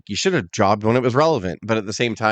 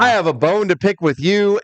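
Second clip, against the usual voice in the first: higher, put-on interviewer voice; mock-serious announcer impression; 5 semitones higher than usual. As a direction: imitate a host sternly opening an interview. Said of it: "brought him on serious".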